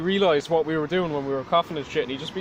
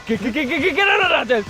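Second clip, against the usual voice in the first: stammered mock yell; angry stutter; 8 semitones higher, 3 dB louder than usual. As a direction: stutter into a high outburst. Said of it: "he'd get really angry and he won't know how to say his words".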